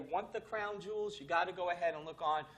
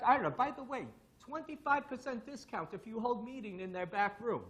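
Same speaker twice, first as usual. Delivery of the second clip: raised mock Russian accent; lightly hammed-up Russian accent, pitched up; 3 semitones higher than usual. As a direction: pass on a tip in imitated Russian accent. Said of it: "with my funny Russian accent".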